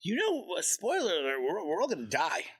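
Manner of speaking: half-shouted nihilist rant, pitch climbing; mock exasperated rant. Telling angry people, rising and exasperated. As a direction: throw up your hands at the absurdity. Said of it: "We get frustrated".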